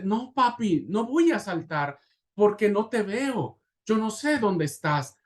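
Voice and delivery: lightly acted frightened boy, high pitch; child's whimper. Son refuses to jump to father he cannot see, mild whimper. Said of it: "el gemido del hijo".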